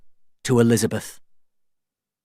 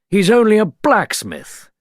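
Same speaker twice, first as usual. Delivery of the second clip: dismayed governor; 10 semitones higher, 5 dB louder than usual. A narrator's reading.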